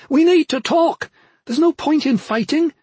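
high, loud, desperate appeal; urgent cry. A narrator's reading. Sister urging her brother to talk instead of fight, crying out. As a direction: cry out to him, pleading for sense. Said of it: "she cried to him".

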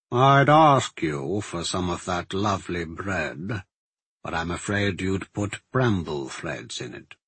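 slow, understated menace; smooth magister, mocking. Magister eyeing the alchemist's gift of bread, mocking. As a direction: toy politely with the prisoner, unhurried.

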